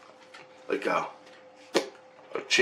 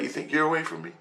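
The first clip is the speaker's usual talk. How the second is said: mildly raised mocking voice; high taunt; 6 semitones higher, 5 dB quieter, faster than usual. Giant taunting the dreamer, lightly raised sneer. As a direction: taunt him, pitched up a little. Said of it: "stuff like that".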